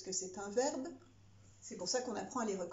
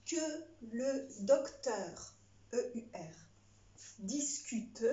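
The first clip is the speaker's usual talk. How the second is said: dictating; slower than usual. Shown as a demonstration. Dictée read to pupils.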